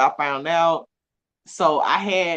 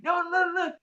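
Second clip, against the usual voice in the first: mock defiant; 11 semitones higher, 7 dB quieter than usual. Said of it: "I be like".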